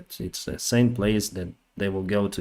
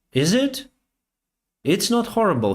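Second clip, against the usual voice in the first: much higher, breezy mock-surprised reply; imitating a cheerful colleague, pitched way up; retold surprised officer; 11 semitones higher, 3 dB louder than usual. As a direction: toss it back as if death were good news. Officer unbothered by pilgrims' deaths.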